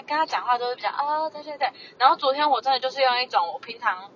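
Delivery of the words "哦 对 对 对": meek agreeing. Retold or imitated.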